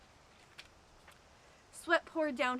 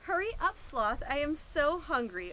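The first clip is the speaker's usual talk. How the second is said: higher, louder impatient sigh; sighing impatience; 4 semitones higher, 4 dB louder than usual. Acted. Hungry iguana sighing impatiently at the back of the line. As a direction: groan it out, hungry and fed up. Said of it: "Iguana said, sighing".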